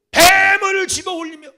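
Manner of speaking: high, loud, slow cry; shouted proclamation. Acted. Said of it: "preaching proclamation". (높고 크게 천천히 외치듯)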